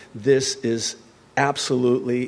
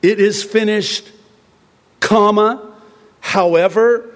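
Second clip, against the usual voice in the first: mocking false version; 8 semitones higher, 4 dB louder than usual. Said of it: "Not comma".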